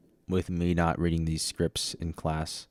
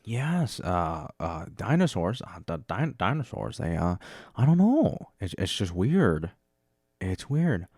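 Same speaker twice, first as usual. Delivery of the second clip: halting impression with jumps in pitch; a loosely attempted celebrity voice; Jeff Goldblum. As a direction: stammer it out, swooping up on key words. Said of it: "where's Jeff Goldblum at?".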